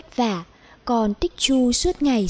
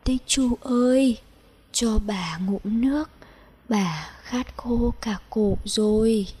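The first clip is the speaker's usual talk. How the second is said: weak thirsty call; 3 dB quieter than usual. Acted. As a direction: let the thirst and fever drain the voice. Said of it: "liền gọi". (giọng bà yếu ớt, khát khô)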